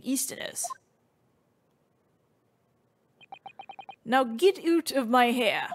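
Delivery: lightly voiced gruff governor; a hint of a gruff Scot; understated gruff dismissal in character; gruff Scottish governor. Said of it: "this is a gruff guy".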